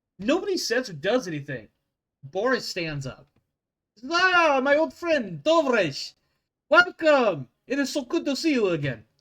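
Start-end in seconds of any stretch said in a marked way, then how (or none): 4.1-9.0 clumsy, bad put-on Russian accent, pitched high and loud. Voicing Boris greeting an old friend: bad Russian accent. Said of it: "my Russian did not come out very well".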